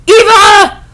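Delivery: high, loud shrieked "Eva!"; excited squeal. Acted. Greeting a friend across the room, a high excited "Eva!" squeal.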